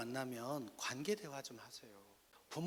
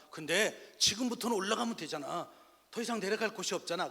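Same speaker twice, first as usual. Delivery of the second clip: loud, high, upbeat dad; rally your child with big encouragement; imitating a father's hearty cheering-up; acted pep talk; 7 semitones higher, 9 dB louder than usual. Father pep talk over bad grades.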